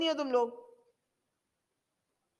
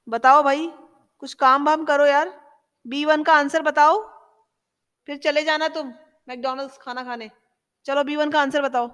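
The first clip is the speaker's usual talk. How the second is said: prodding a student; 5 dB louder, much faster than usual. Real, not acted. Teacher prodding a slow student.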